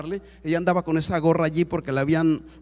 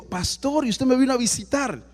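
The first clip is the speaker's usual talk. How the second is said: higher-pitched, surprised greeting; surprised question; 5 semitones higher than usual. Retold or imitated. Professor greeting the pastor who has come to her house, surprised.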